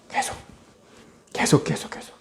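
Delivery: hushed whispered repetition. Retold or imitated. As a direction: whisper it like it never stops. Endless torment repeated. (끝없이 속삭이는 반복)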